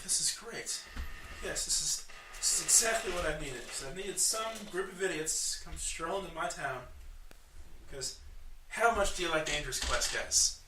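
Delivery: a hint of an excitable little quest-giver; lively gnome quest-giver. Gnome welcomes adventurers to town, lightly voiced eagerness.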